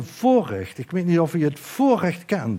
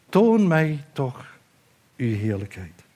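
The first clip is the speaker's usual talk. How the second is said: slow pleading plea. Acted. Moses pleads to see God's glory.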